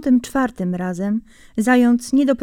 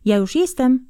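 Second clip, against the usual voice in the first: mock call; 4 semitones higher than usual. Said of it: "zawołasz".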